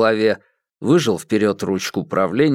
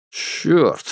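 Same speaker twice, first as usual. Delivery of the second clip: a higher, sharp falling oath; curse; 6 semitones higher than usual. A narrator's reading. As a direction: spit the word out. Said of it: "повторил Хэрод".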